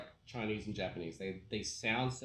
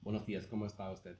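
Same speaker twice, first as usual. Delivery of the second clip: fluent Spanish accent demo. Shown as a demonstration. Friend shows he kept the language, Spanish accent. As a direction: greet in an authentic Spanish accent. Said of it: "I can still do the accent".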